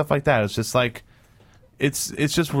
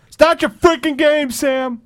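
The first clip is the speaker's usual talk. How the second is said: high-pitched exasperated yell; exasperated outburst; 10 semitones higher, 3 dB louder than usual. Real, not acted. Scolding Sam off someone's game, exasperated yell. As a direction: snap loudly, patience gone. Sam keeps on, speaker loses patience.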